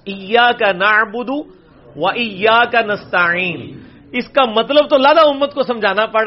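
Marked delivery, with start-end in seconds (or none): 0.1-3.6 ایاک نعبد و ایاک نستعین chanted very slowly; slow recitation. Shown as a demonstration. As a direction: recite slowly with the throaty ain. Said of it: "اس کی pronunciation بھی سمجھانی".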